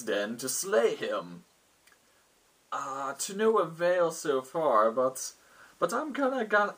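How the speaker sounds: lightly voiced lord, starting high, drawn out; a hint of a batty ruler explaining his trouble; eccentric lord. Lord explains his need to adventurers.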